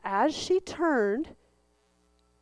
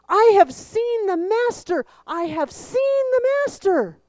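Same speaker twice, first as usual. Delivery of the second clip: shouted much higher and louder, bursting with joy; joyful shout; 10 semitones higher, 9 dB louder than usual. Acted. Mary running to the disciples, shouting her joyful news. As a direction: call it out like you're running to tell everyone. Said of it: "She ran off shouting".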